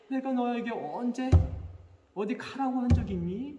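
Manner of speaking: put-on mother's innocent, childlike protest. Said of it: "그 애기 같은 목소리로".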